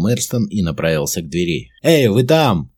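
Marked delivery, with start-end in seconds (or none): 1.8-2.7 loud, high call to the guards; shouting to guards. A narrator's reading. Commander calling guards outside the door, loud shout. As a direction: bark the call across the room. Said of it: "крикнул он стражникам".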